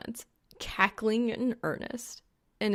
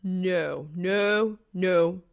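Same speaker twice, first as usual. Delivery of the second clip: frantic no's; 3 dB louder, much slower than usual. A narrator's reading. Frantic repeated refusal.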